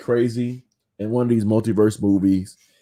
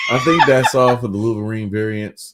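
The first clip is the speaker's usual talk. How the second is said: laughing; 6 dB louder than usual. Real, not acted. Laughing while wrapping up.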